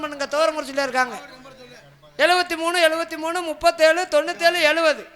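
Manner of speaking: level, measured notice read-out; donor announcement. Real, not acted. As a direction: read out a sponsor's thank-you notice and phone number. (நன்கொடை அறிவிப்பு வாசிக்கும் தொனி)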